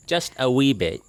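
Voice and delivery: bouncy put-on British accent; a wobbly attempt at English. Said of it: "Is that supposed to be English?".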